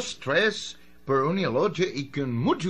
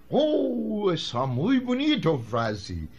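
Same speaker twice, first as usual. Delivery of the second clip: gringo broken Spanish, delighted; American accent, admiring the phrase; 2 semitones higher, slower than usual. Acted. The yanqui praising the new phrase in an American accent.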